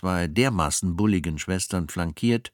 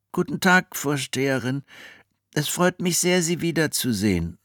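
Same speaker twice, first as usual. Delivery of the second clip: put-on boy voice; 8 semitones higher than usual. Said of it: "log dieser".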